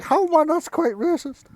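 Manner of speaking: high, loud comic voice; high-pitched indignant sidekick; objecting gang member. Acted. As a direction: protest in a squeaky put-on voice. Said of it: "One of the others is like".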